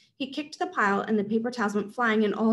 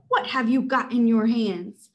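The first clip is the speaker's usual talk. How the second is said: louder, slow grilling; villain interrogating; 5 dB louder, slower than usual. Acted. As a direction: demand it slowly and loud. Caesar interrogates shopper.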